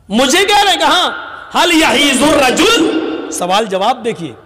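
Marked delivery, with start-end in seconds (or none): 0.1-2.9 high, acted disbelief; retold indignant question, pitched up; incredulous retort. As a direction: throw the question back in astonishment.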